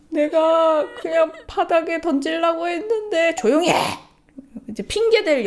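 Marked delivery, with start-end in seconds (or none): 0.1-3.4 put-on higher, slow, shouted kid protest; whiny child excuse. Mom imitating her son's excuse to dad. 3.4-3.8 louder stern order; mock angry shout. Mom imitating the father silencing their son.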